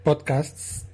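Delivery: "Podcasts" with a crisp English final TS; English pronunciation. Shown as a demonstration. Correcting a friend with the English sound, crisp. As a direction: say "Podcasts" the English way, ending on a clear -sts. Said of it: "T S es muy pronunciable mal".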